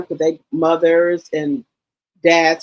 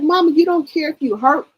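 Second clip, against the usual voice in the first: much higher pitched, rising in disbelief; high, louder pleading with mother; exasperated protest; 11 semitones higher, 3 dB louder than usual. Retold or imitated. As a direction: push back at Mama, incredulous and shrill-high. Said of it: "I'm like".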